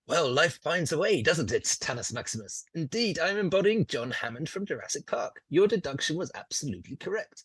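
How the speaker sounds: grand, delighted host's delivery; John Hammond. Acted. Game master answers as John Hammond, lightly theatrical.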